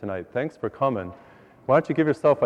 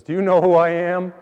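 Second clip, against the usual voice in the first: higher-pitched, self-important question; indignant challenge; 5 semitones higher than usual. Acted. Elderly woman challenges the usher at church, indignant. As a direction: pull rank with a raised voice.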